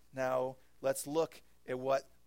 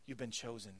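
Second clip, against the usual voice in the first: soft emphasis; 2 semitones lower, 5 dB quieter than usual. Real, not acted. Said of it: "I want us to hang on to".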